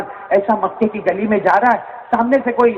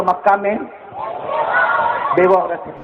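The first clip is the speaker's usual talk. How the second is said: call and response. Shown as a demonstration. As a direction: shout it so they answer back. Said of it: "ساتھ میں بولو".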